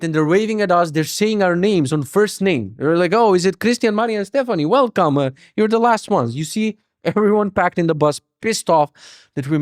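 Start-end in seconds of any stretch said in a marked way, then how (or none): 3.1-6.3 higher, bright airline staff voice; cheerful gate agent. Retold or imitated. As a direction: welcome them like a chirpy agent. Gate staff calling them in.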